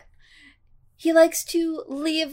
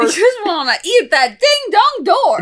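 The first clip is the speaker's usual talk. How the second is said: goofy singsong; 7 semitones higher, 7 dB louder than usual. Acted. Silly chant exchange.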